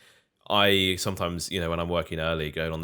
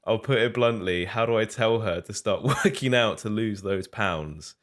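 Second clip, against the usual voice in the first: lightly voiced south London roadman accent; 3 semitones higher than usual. Shown as a demonstration. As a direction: read it in a hint of roadman slang. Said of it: "roadman slang ... do my best impression".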